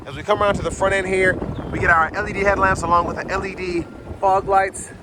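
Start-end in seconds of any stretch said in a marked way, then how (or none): 1.7-4.9 wind on mic. Real, not acted. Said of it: "sorry for the wind noise".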